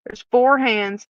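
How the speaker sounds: mock smart-aleck counting. Inmate's officer answering investigators' accusation, smart-aleck. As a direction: count it off pointedly, a touch cheeky. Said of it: "my smart aleck self".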